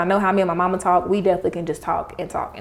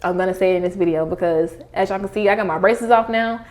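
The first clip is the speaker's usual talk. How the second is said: slight lisp from retainers; talking with retainers in; wearing a retainer. Real, not acted. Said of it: "So if you hear a lisp".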